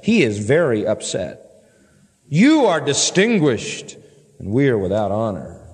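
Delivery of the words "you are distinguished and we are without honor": sarcastic contrast between grand and lowly; dripping sarcasm. Acted. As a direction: exaggerate the honor, then sink into false humility. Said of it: "All dripping sarcasm".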